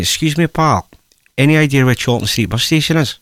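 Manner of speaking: a hint of Scottish in a retold question; Scottish accent. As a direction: ask in a mild imitation Scottish accent. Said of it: "keep this accent up".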